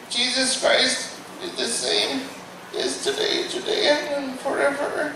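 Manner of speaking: high, breathless, soft prayer; a nervous hushed plea; panicked prayer. Retold or imitated. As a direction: stammer the verse in fear. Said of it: "that's all I said".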